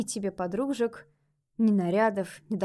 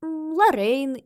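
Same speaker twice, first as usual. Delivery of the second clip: put-on child ghost voice; 8 semitones higher, 8 dB louder, slower than usual. A narrator's reading. Ghost girl suggesting.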